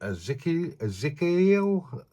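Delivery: lisping without dentures; slurred by missing teeth; missing front teeth. Real, not acted. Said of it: "I can't say that word without my teeth in".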